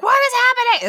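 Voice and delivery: high, loud squeal of disbelief; mock scream. Imitating frantic listeners' screaming text posts, mock scream. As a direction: shriek it in hammed-up alarm. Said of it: "screaming text posts being like".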